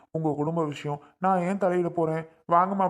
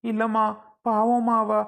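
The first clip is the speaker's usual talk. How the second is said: slightly raised, whimpering self-defence; tearful; 3 semitones higher than usual. Acted. Father excusing his fright to the nurse, tearful. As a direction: explain yourself while still upset and crying. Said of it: "நீங்க அழாதீங்கண்ணே".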